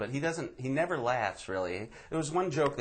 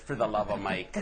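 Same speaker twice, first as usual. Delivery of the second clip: light Midwestern Wisconsin accent; folksy Wisconsin accent. Shown as a demonstration. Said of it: "I get the accent again".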